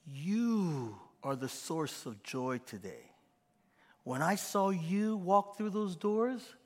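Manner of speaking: slow, tender welcome; delighted welcome. Shown as a demonstration. Pastor shows how to greet someone, slow and delighted. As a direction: slowly pour delight on the person. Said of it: "And we say".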